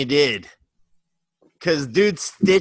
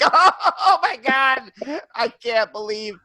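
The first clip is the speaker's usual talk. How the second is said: slow, high, laughing gush; laughing, slurred mock sob of a high man; mock high-on crying; 10 semitones higher, slower than usual. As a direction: drag it out like a stoned, teary fan. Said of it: "I'd be like".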